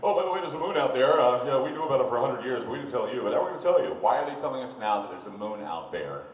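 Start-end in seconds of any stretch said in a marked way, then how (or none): 0.0-3.9 mock offhand officials. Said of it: "they finally got around to telling us".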